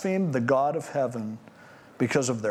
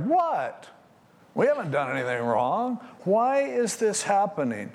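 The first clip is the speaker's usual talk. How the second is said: mock indignant innocence; 4 semitones higher than usual. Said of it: "to act like".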